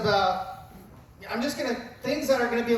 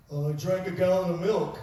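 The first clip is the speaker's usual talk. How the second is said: put-on sheepish kid; 4 semitones lower than usual. Kid's sheepish excuse.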